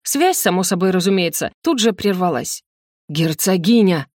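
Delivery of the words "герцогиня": негромкий грозный оклик; окликни жену с лёгким рыком; рычание. Acted. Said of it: "прорычал он". (слегка рычащий оклик)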